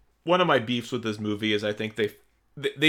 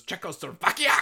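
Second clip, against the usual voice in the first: lightly voiced villain shouting the name, higher; mock Berkoff bark; 8 semitones higher than usual. Fan imitating his favorite line for a friend. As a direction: ham up the general's outburst. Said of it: "the way he goes".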